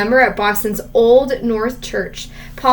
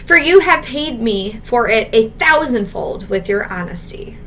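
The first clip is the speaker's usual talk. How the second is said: tender. Acted. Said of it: "cried his father".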